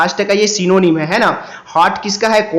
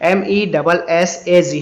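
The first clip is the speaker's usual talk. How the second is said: spelling out; slower than usual. Shown as a demonstration. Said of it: "मैसेज को ऐसे लिखा जाता है".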